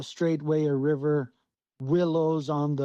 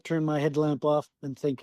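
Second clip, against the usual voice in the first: usual speaking voice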